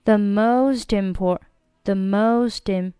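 slow MOST IM linked, t softened toward d; linked, voiced t. Shown as a demonstration. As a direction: draw out "most im", voicing the linking t. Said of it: "要浊化一下". (most im 慢速连读，t 浊化)

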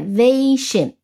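"vation" with a strong va; stress on VA. Shown as a demonstration. Teacher points out the rule, "vation" stressed on va. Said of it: "重音在".

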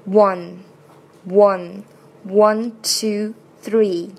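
slow, separate "one", then "two", "three"; pronunciation demo. Shown as a demonstration. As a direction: model "one" slowly with a "w" start and nasal "n" end. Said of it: "念出来是". (慢速示范“one”)

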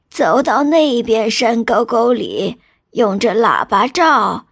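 put-on slow, kindly old man voice; white-bearded old man. Dream elder offering a tired girl a gift, slow old man voice. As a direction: draw it out like an unhurried old sage. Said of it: "老头说".

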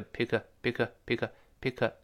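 "pick" said lightly and slowly. Shown as a demonstration. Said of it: "轻轻的". (轻轻地慢读 "pick")

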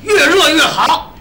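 slow, high, stretched-out order; emphatic parroting. Acted. Copycat echoing rival's order to the waiter, drawn-out emphasis. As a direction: copy the order with drawn-out relish.

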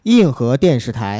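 slow, grand TV gala host voice; gala host announcing. Pretend. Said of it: "我以为你说咱模仿的这个开场呢".

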